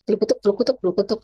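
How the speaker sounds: playful blukutuk bubbling sounds; bubbling noise. Shown as a demonstration. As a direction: imitate bubbles blown through a straw. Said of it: "Kalau ini ditiup".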